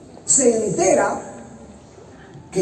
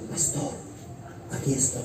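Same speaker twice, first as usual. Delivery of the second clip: retold timid approach; 16 dB quieter than usual. Woman approaches him after the service.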